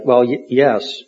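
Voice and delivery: slow, halting stutter. Acted. Brother caught lying to the priest, stuttering. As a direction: trip over the yes. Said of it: "He stuttered".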